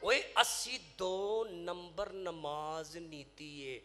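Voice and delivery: slow, drawn-out mock lament; acted tearful lament. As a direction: stretch each word as if weeping. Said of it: "ਰੋਂਦੇ ਕਿਉਂ ਹੋ".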